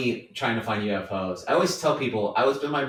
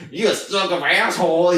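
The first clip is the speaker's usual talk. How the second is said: mocking voice; 4 semitones higher, 4 dB louder than usual. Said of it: "your voice changed".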